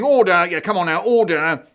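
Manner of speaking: loud, high judge's cry for order; the judge calls the court to order, shouting. Acted. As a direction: bang the gavel with your voice. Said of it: "stopped himself by shouting".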